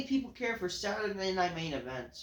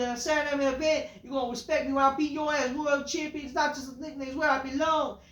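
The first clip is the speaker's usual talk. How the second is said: higher, rising hype promo as Jey Uso; an excited wrestler promo, getting higher; imitating Jey Uso; 5 semitones higher than usual. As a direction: pump it up like a wrestler cutting a promo. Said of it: "Jey Uso then says".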